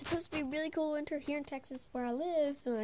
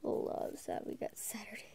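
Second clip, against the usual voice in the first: hushed so the cat keeps sleeping; breathy low whisper; 3 semitones lower than usual. Real, not acted. Whispering to the camera beside a napping cat.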